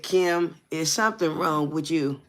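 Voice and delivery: lightly mocking retold question. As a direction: needle the caller with pretend innocence. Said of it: "With the same old mockery sound".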